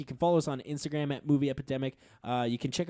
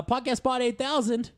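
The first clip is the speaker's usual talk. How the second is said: announcer voice; 10 semitones higher than usual. Pretend. Announcing robot character, high pitch.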